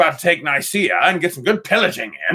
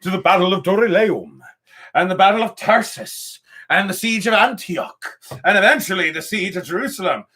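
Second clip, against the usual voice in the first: dramatic trailer narration; announcer voice; 4 semitones higher than usual. Pretend. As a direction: announce it like a TV promo. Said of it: "You sound like an announcer".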